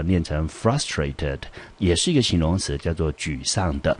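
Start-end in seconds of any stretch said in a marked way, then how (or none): 0.5-1.4 frustrated said slowly, every syllable clear; slow model pronunciation. Shown as a demonstration. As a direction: spell out frustrated for the class, slowly. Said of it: "再加上E D之后呢，念成". (慢慢示范读frustrated)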